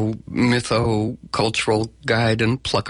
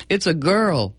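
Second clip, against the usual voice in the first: delighted announcement; 6 semitones higher than usual. Retold or imitated. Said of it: "arriving and then going".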